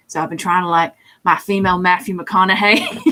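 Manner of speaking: light Southern accent; a hint of a typical Southern accent. Shown as a demonstration. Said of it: "doing a Southern accent as well".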